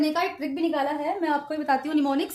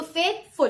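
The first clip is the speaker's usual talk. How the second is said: फेथफुल with equal force on फेथ and फुल; two strong beats, फेथ and फुल; slower than usual. Shown as a demonstration. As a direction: give both halves of फेथफुल the same weight. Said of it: "फेथ भी उतनी ही force से".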